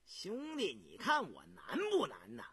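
sneering. Acted. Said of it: "胤娥冷笑着".

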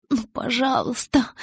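high, slow, breathy plea; breathed out. Acted. Bella begs Edward, breathed out high and slow. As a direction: exhale the plea. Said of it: "выдохнула я".

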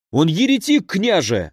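a high, wailing accusation; wailing cry. Acted. Kazimir accuses the mercenary before the prince, wailing high. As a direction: wail it out, pointing at the monk. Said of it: "завопил Казимир".

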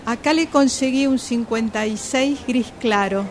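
loud call from the back of the shop. Acted. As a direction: shout it across the store to the fitting room. Shopgirl calling from the stockroom. (la vendedora grita desde el depósito)

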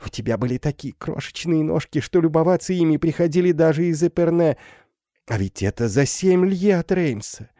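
high, eager voice of a happy mother; overjoyed mother. Acted. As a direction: pour out the joy of finding a daughter. Mother's joyful speech to daughter. (восторженная мать, высоким голосом)

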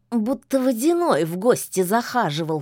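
snooty bored cat, snorting; scoffing cat. Acted. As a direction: sniff at it with disdain. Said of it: "фыркнул кот".

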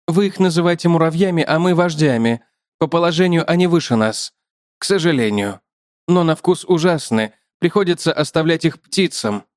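chatty spider, lifted above the narration; talkative spider. Acted.

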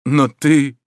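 loud cry leaping high on the last word; anguished, climbing exclamation; despairing. A narrator's reading. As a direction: wail it in despair. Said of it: "с отчаянием повторял Джальма".

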